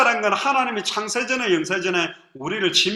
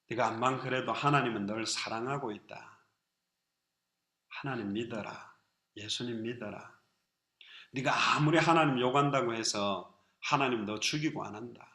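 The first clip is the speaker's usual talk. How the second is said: tender grandmother comfort; 9 semitones lower, 10 dB quieter than usual. Retold or imitated. Elderly deaconess comforting the young man.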